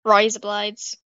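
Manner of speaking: rough attempt at an Australian accent; rusty Australian accent. Shown as a demonstration. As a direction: try a rusty Australian twang on "blights". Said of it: "My Australian accent is really rusty".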